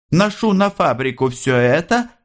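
sly, sparkling reply; young mischief. A narrator's reading. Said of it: "какой-то молодой задор". (с молодым задором, выше обычного)

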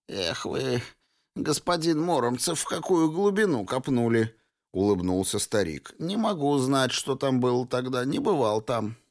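a hint of a chatty elderly clerk; very old man. Old man answers the detective.

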